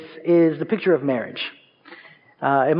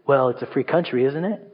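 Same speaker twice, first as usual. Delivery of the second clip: low, lazy comeback; sassy sibling retort; 5 semitones lower, 3 dB quieter than usual. Retold or imitated. Younger sibling mocking the big brother, lower and softer. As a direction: toss it back with a shrug. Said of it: "And they would say".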